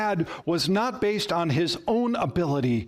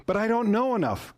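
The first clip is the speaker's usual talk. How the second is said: higher-pitched protest; doubting objection; 5 semitones higher, faster than usual. Acted. Listener objecting to Jesus' call, higher and doubtful. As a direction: lift the voice into a worried excuse.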